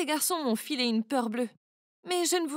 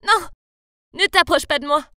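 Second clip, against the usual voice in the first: mild yell; 3 semitones higher, 8 dB louder than usual. Acted. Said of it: "Je leur ai crié dessus".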